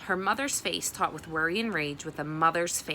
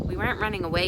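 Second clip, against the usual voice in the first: interrupting; 3 semitones higher, 4 dB louder, faster than usual. Acted. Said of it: "interrupted Reeve".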